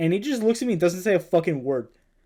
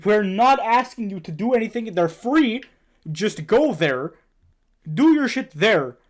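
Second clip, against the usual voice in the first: retold stern scolding; 5 semitones higher, 4 dB louder than usual.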